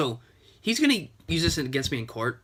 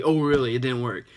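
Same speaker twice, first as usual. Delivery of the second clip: flatter, drier "Oh, really?" with only a light lift; "Oh, really?" said dry and mocking, barely raised; sarcastic; 3 dB louder than usual. Mocking the scammer, dry sarcasm. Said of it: "You know, sarcastically".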